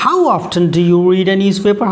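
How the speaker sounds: slow, careful dictation of the example sentence; slow read-aloud. Shown as a demonstration. Teacher reading the example sentence slowly to students. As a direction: read it out word by word for the class.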